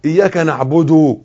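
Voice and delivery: نعبد ending in a u vowel, slowly; slow إياك نعبد with rounded final u; damma on نعبد. Shown as a demonstration. Teacher showing the damma, نعبد slowly ending in u. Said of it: "ضمة برضو مش واو".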